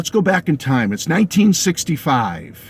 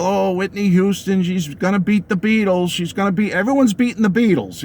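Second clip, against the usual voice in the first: mock hype; 4 semitones higher than usual. Mimics media hype about Houston.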